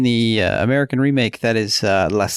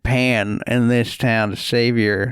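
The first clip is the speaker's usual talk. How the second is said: put-on old prospector. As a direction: ramble like a lonely gold panner. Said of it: "guy, prospector".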